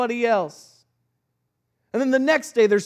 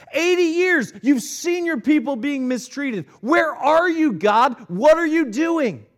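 pleading lament; 3 semitones higher than usual. Acted. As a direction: hurl the question at God, pleading. Preacher voicing lament to God.

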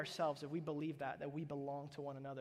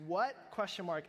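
typed in caps; 3 semitones higher, 6 dB louder than usual. Retold or imitated. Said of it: "And I literally typed in all caps".

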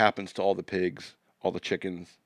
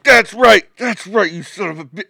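very high, loud hammed-up woman's voice; 10 semitones higher, 11 dB louder than usual. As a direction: gush it in her voice. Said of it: "she's like".

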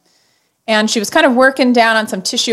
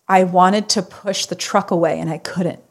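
retold through tears. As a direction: relive the moment the tears came. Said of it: "I just started sobbing".

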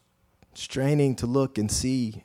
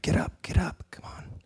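urgent whisper; 4 semitones higher than usual. Acted. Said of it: "And his friends".

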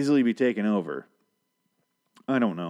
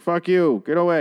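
mock racist yell; 8 semitones higher, 6 dB louder than usual. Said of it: "He's like".

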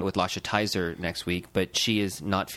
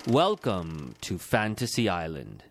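slow, hammed-up announcer voice; drawn-out cartoon host; exaggerated cartoon intonation; slower than usual. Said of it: "I'm just kidding".

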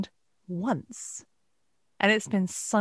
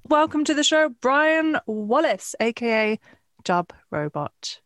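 announcer voice; 3 semitones higher, 4 dB louder than usual. Acted. Announcing the guest like a host.

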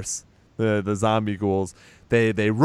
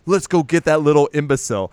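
haughty grumble; 4 semitones higher, 4 dB louder, faster than usual. Retold or imitated. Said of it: "and he's like".

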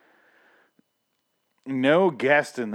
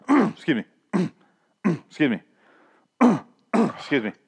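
fake throat clearing; 6 semitones higher, 4 dB louder than usual. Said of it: "kept going because some fucking guy".

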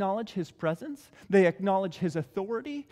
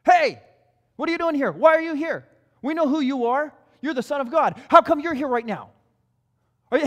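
louder, higher demons shouting at Jesus; yelling demons; 4 semitones higher, 4 dB louder than usual. Acted. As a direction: yell it at him like a cornered demon. Started yelling at him.

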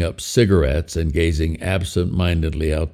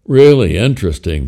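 Yeti puppet voice; 8 dB louder than usual. Acted. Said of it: "the Yeti said".

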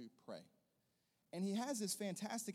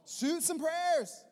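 slow, loud, high emphasis on prayers; slow emphatic repeat of the charge; 11 semitones higher, 12 dB louder, much slower than usual. Shown as a demonstration. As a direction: drive the phrase home slowly. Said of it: "Some of you need to start shooting some prayers".

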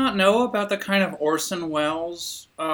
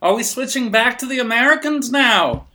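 raised, loud Cockney voice; Cockney accent; 6 semitones higher, 4 dB louder than usual. Pretend. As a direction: hold the London copper voice. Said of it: "Cockney version".

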